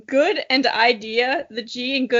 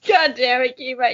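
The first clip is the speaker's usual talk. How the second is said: growling; 3 dB louder than usual. A narrator's reading. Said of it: "Shade growled".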